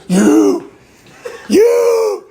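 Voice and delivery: mock yell leaping very high; a drawn-out, high-pitched "you" screech in imitation; imitated yelling. Girl spotting him in a crowded convenience store, imitated high yelling. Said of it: "She starts yelling like this".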